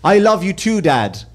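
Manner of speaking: a hint of a heartfelt son; sincere TV son. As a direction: answer as a sitcom son, understated. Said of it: "looked at his father and he went".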